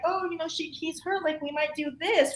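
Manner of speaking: soft modeling. Shown as a demonstration. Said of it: "I might be like".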